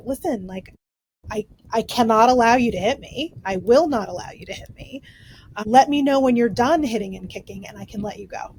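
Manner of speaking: steady and unhurried, setting a gentle limit; calm parent. Retold or imitated. Mother retells calming her hitting five-year-old, lightly calm. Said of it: "and very calmly be like".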